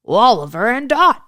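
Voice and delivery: Santa voice. Acted. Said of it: "he said".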